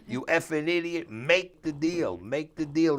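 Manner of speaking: loud, high, slow angry yelling; mock boss shouting orders down the phone; imitated boss yelling. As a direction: hammer home make the deal like a furious boss. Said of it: "he's telling them".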